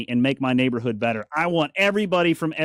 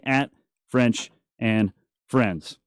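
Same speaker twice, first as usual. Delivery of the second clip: "At French and Friends" said slowly, word by word; slow repeat; 4 semitones lower, much slower than usual. Shown as a demonstration. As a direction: drag it out so they catch it.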